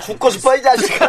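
menacing thug voice; gangster threat. Acted. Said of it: "너무 무서워".

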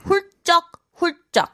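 훌쩍 with a hard tense 쩍. Shown as a demonstration. Teacher stresses the double consonant for students, hard 쩍. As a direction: hit the 쩍 in 훌쩍 hard. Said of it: "hit that 쩍 really hard".

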